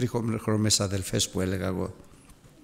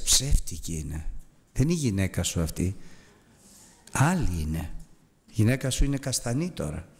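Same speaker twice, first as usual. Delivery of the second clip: put-on remembered child voice; 3 semitones lower than usual. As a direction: let the voice haunt him. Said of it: "αυτή η φωνή της Αλεξίας".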